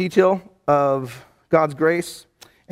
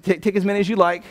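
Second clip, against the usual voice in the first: mock generous; 4 semitones higher, 3 dB louder, faster than usual. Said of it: "It's like".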